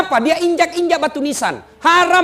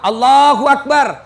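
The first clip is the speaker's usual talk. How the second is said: slow, drawn-out Allahu Akbar, louder; prayer call demo; 6 dB louder, slower than usual. Shown as a demonstration. Imam leading the funeral prayer, slow drawn takbir. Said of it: "kursus kilat sholat jenazah".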